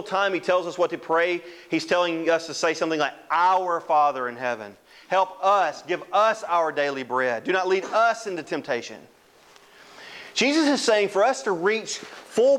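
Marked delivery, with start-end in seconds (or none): 3.3-9.1 "Our" and each "us" punched; quoted prayer with weight on "Our", "us", "us"; stress on plural pronouns. Retold or imitated. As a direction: lean hard on "Our" and every "us".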